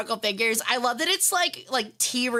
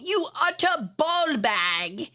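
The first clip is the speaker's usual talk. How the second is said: mock British insult; 4 semitones higher, much slower than usual. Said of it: "sounds like a uniquely British insult".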